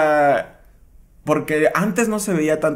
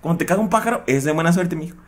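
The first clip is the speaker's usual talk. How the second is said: higher soothing mom voice; mock mother; 3 semitones higher, faster than usual. Mother explains the saying to her son, higher mom voice.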